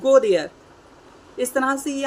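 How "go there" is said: loud command. Shown as a demonstration. Demonstrating an order sentence.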